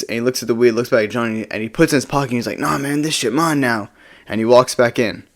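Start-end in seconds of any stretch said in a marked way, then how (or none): 2.6-3.9 lightly voiced drunk guy, pitched up; drunk, high partygoer. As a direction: imitate a drunk guy claiming it. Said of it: "He's, like, super drunk and high".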